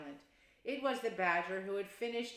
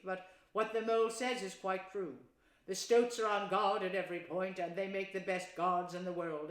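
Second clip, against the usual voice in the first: kindly; 4 dB louder than usual. Acted. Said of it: "more kindly".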